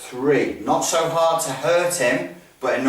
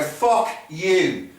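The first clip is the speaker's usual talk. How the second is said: mock aggressive curse, higher on the first word; aggressive swearing; 3 semitones higher than usual. Shown as a demonstration. Instructor switching state before a drill, aggressive swearing. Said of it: "I change state and I go".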